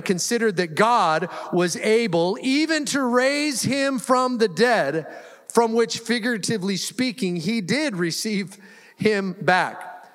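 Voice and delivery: scripture reading. Acted.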